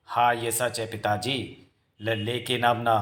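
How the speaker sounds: slow, drawn-out sinister admission; gloating confirmation. Acted. Witch confirming her secret to the father, slow gloating.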